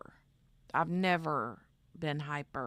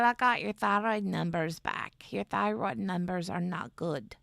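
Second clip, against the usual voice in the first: mock announcement, raised and a bit loud; lightly put-on voice for a retold quote; put-on doctor voice; 4 dB louder than usual. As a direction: imitate the doctor in an exaggerated way of talking. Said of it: "She don't talk like that. I don't know why I talked like that".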